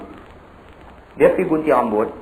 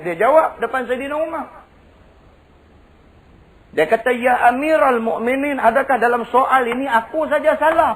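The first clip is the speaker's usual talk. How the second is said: high, driving sermon storytelling; preaching storytelling; 12 semitones higher, 4 dB louder than usual. Acted. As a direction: tell the tale at full preaching force. Kisah Saidina Umar diceritakan. (berceramah dengan penuh semangat)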